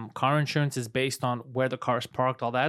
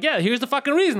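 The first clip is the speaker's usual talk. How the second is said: mock angry; 9 semitones higher, 5 dB louder than usual. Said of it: "And I'm like".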